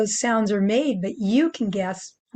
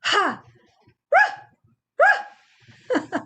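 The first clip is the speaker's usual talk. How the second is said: high airy ha ha then barks; high panting dog; 9 semitones higher, 4 dB louder, much slower than usual. Shown as a demonstration. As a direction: pant then bark like a dog. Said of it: "a sound that goes".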